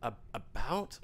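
about said the American way, like a-bout. Shown as a demonstration. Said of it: "when I do American stuff, I have to say".

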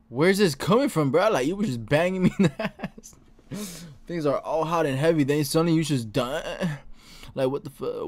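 mildly hammed-up indignant character voice; indignant jilted lover. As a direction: complain like a dumped lover, hammed up a little. Voices a story character's quarrel.

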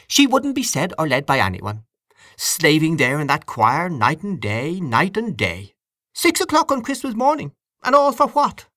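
high, aggrieved complaint; emphatic, exasperated aunt; indignant aunt. A narrator's reading. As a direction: lament the wasted toil, pitch climbing at the end. Voices Aunt Kate's indignant complaint.

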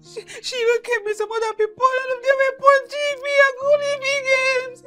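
sobbing while telling what happened; tearful account of the airport attack; crying. Acted. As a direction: tell it through tears, halting. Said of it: "Why are you crying?".

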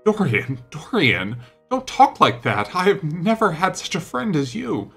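high, urgent plea; alarmed pleading. A narrator's reading. Painter turns pale at lad's suicide threat, alarmed pleading.

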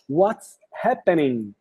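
"happening" ends on the N, final G dropped; silent final G. Shown as a demonstration. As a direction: stop "What's happening?" at the N sound, no G. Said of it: "esse último G aqui fica mudo".

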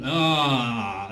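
tight, squeezed ah; strangled ah. Shown as a demonstration. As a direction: choke the ah a bit. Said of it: "I'm hearing a little strangly".

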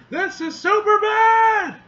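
high, loud, slow proclamation; heroic shout. Acted. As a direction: announce it like a hero. Character proclaims loudly.

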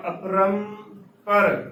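"ਅਪਰੰਪਰ" split in two parts, apram-par; correct pronunciation. Shown as a demonstration. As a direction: say "ਅਪਰੰਪਰ" as two clear halves. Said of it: "ਤਾਂ ਇਸ ਦਾ ਸ਼ੁੱਧ ਉਚਾਰਨ".

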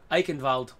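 "Eichenwald" with a German v for the w; lightly German "Eichenwald"; slight German accent. Shown as a demonstration. Gamer trying out the map name, slight German accent. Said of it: "kind of a slight German accent".

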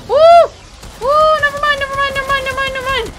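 high, loud excited yelling; excited screaming. Real, not acted. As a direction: shriek it out in excitement. Excited cheer then panic.

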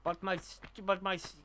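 put-on lightly done foreign-accent game character; Nico. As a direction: attempt a weary immigrant's foreign accent. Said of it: "I can't do Nico very well".

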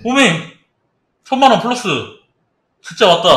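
loud, high cheering; excited yelling. Real, not acted. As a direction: shout out the big win. Profit appears, yelling.

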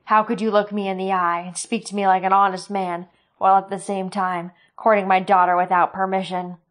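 loud, furious tirade; cursing rage. Acted. Sloane cursing Roran for courting his daughter, furious. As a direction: tear into him with contempt. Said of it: "He cursed and said".

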